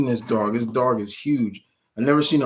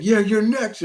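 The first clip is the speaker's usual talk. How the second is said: vampire voice; 11 semitones higher, 3 dB louder than usual. Retold or imitated. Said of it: "And he's like".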